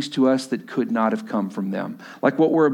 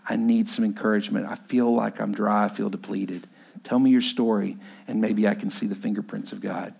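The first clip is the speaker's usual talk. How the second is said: mild pleading, fading low; 4 semitones lower than usual. Retold or imitated. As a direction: ask humbly, letting the voice drop away. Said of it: "let a godly person know".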